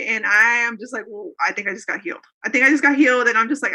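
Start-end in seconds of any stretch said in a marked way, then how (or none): 2.4-3.3 louder, higher burst of disbelief; the realization bursts out loud; excited. Retold or imitated. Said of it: "And so I freak out about it".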